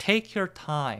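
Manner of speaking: take hit hard with strong stress. Teaching an english phrase for a hasty friend, stress on take. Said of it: "take의 강세 주면서 take your time 이렇게 얘기해 주세요".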